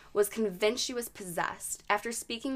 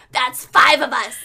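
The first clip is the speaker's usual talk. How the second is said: loud, raised demon boast; possessed woman imitation; 4 semitones higher, 12 dB louder than usual. Podcaster repeating demon's answer to priest, loud possessed voice. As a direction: announce it in a hammed-up demon voice. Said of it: "So she says".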